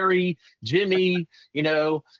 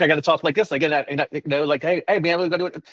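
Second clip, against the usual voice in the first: quick New York street-style patter; lightly put-on New Yorker, pushy and brisk; New York talk; faster than usual. Shown as a demonstration. Salesman showing how he mirrors New York callers, New York talk. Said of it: "Talk to me from New York".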